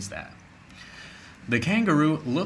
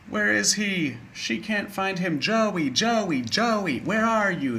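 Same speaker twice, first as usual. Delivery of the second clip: mild mock shout; 8 semitones higher than usual. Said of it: "the kangaroo shouts".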